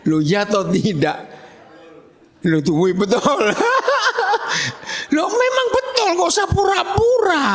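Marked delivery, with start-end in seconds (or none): 3.3-5.1 high-pitched burst of laughter; hearty laugh. Real, not acted. Preacher laughing as listeners agree, hearty high laugh. 5.2-7.5 very high-pitched teasing protest; amused exclamation. Real, not acted. Preacher teasing listeners not to pretend, high amused exclamation.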